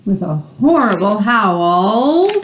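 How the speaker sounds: hammed-up monster howl; mock howl. Shown as a demonstration. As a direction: stretch horrible howl like a monster. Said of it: "that means he's not happy".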